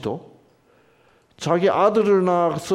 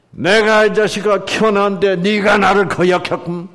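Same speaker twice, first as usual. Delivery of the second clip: loud, raised angry scolding; loud Korean-style angry reading; 5 semitones higher, 6 dB louder than usual. Shown as a demonstration. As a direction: read it like an offended father. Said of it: "한국식으로 읽으면 어떻게 돼요".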